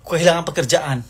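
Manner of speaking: ordinary talk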